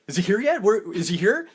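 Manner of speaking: put-on fidgety like a child waiting; mock eager Cruise; impatient Cruise.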